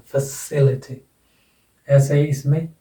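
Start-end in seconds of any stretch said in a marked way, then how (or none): 0.1-1.0 "फैसिलिटी" stressed on its second syllable; stress demonstration. Shown as a demonstration. Teacher confirming the accented syllable, "फैसिलिटी" said fuh-SIL-i-ty. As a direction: put the weight on "सि" in "फैसिलिटी". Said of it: "इससे पहले वाला syllable accented".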